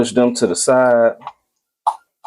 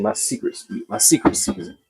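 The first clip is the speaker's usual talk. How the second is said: whispered secret, then a high hushed tease; conspiratorial aside to viewers; secretive whisper; 8 semitones higher, 7 dB quieter than usual. Acted. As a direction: hush it like a secret. Revealing his secret seasoning.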